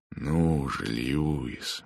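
soft, soothing uncle; calm the crying boy; gentle. Acted. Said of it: "мягко сказал он".

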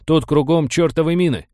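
high-pitched, urgent squeak; squeaked alarm. A narrator's reading. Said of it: "пискнул Ком".

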